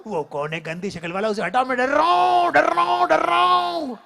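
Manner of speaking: loud, high panicky repeats; hammed-up fear; mock fright. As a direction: cry it out in fake terror. Scared at mirror.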